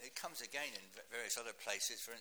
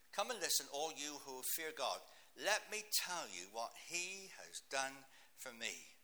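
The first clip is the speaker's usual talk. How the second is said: proclaiming scripture. Acted. Preacher proclaims the psalm.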